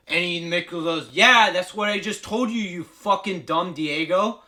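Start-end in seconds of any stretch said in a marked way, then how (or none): 1.1-4.4 loud, raised mock coach's rebuke; exasperated scolding. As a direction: scold him, dragging out the insult. Coach scolds Rocky in retelling.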